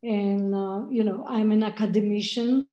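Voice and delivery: choppy audio cutting out; broken-up call audio; corrupted glitchy audio. Real, not acted. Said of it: "your audio is cutting out a bit".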